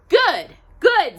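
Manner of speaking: put-on high, loud, approving old Bill; pleased old engineer. Old engineer praises his new student, high and loud. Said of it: "said Bill".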